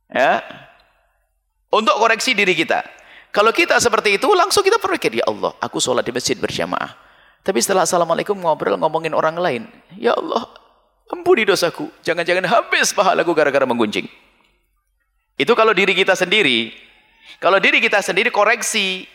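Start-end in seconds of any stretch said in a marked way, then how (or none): 5.2-14.1 remorseful prayer. Acted. Voices a self-reproaching prayer.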